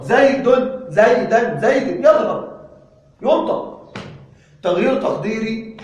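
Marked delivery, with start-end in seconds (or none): 0.0-2.6 زيد، زيدا، زيد with each final vowel said clearly and slowly; case endings shown. Shown as a demonstration. Teacher showing students how the endings of زيد sound, slow and clear. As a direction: make the endings of زيد heard one by one. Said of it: "انظر".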